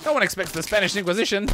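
quoting the Inquisition line. Retold or imitated. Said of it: "didn't expect that, did you?".

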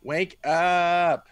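high, loud shout; yelling wake up. Acted. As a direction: yell to wake him. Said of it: "She's like".

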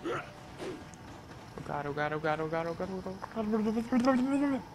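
slow, high, drawn-out oh god; terrified gibbering. Real, not acted. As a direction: moan it out in dread. Overwhelmed by enemies.

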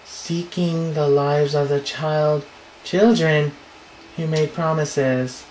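very slow, drawn-out ghostly words; slow eerie read. Acted. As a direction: stretch each word like a haunting. Ghost line read slowly.

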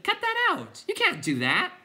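high, loud protest; shouted order. A narrator's reading. Boy telling wreckers to stop, high shout. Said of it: "he shouted".

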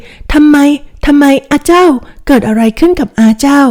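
high, pressing cry of worry; anxious urgent questions. Acted. Daughter urgently pressing her maid about her friend, alarmed. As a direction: demand the news, frightened for him.

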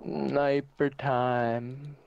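very slow, savoured announcement; drawn out. Real, not acted. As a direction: stretch each word out, gleeful. Switching to sniper.

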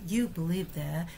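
"that" reduced and unstressed in "You believe that"; 弱读that; weak that. Shown as a demonstration. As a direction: let "that" fall away quickly after "believe". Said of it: "这个that要弱读哈".

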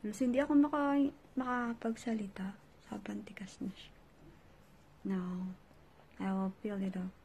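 barely moving lips; tight-faced muffled speech; stiff face mask on. Real, not acted. Seen 0: Glossy hardened gel mask covers her face, stiffening mouth while she speaks.

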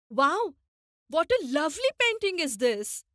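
lightly excited admiration of a painting; a mild, delighted wow; admiring. Shown as a demonstration. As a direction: show appreciation with a touch of excitement.

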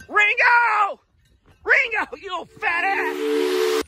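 high, sharp call after the dog; exasperated scolding. Real, not acted.

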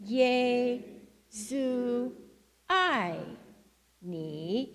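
"Yesu ai ni" drawn out with pauses; slow Chinese with motions. Shown as a demonstration. Leading the congregation in the phrase with motions, drawn out. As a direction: pause between each word, "Yesu", "ai", "ni". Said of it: "We're gonna try again".

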